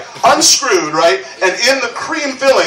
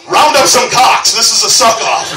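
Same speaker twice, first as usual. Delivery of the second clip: mock challenge; 3 semitones higher than usual. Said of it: "imagined rival announcing fight".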